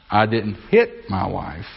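the word hit stands out, slowly spoken; stress on HIT. Shown as a demonstration. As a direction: HIT pressed hard, slow delivery. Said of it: "Or I didn't hit my wife".

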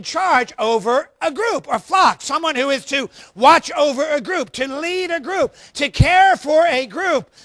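rising preacher's shout, slowing on the last line; preaching build. Real, not acted. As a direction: build it up and hammer it home to the congregation. Preacher builds to full force.

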